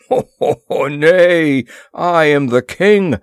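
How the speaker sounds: big laughing ho ho, then a loud high boast; booming laugh. Acted. Horta laughing at his prisoners, loud booming boast. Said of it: "Horta's great laugh boomed out".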